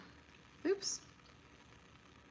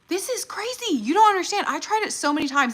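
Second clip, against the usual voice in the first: excited; 9 semitones higher, 5 dB louder than usual. Real, not acted. Thrilled about finally succeeding.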